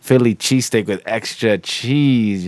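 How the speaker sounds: hamming up a shady sub shop customer; mock customer order. Friend mocks a sketchy sub shop order, slow and hammed-up.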